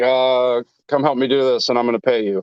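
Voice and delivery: ordinary talk, nothing marked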